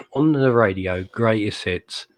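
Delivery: slow, drawn-out mock DJ intro; lightly hammed-up radio host, stretching the words; radio announcer. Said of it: "over to you, Mister Radio Announcer".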